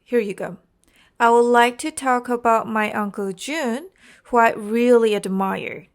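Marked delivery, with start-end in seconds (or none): 1.2-5.9 natural rise and fall, landing on "really admire"; demonstrated intonation. Shown as a demonstration. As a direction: rise slightly on "like", emphasise "Jun". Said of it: "this is intonation".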